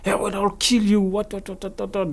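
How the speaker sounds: high-pitched mock death threat; imitated threat. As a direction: rant threateningly, mimicking an angry man. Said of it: "This is what he was saying to me".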